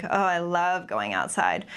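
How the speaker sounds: subtle sarcasm, as in natural conversation; toned-down sarcastic remark, only lightly marked; faded, natural sarcasm. Shown as a demonstration. Presenter showing the end of training, subtle natural sarcasm. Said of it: "we were saying it more like".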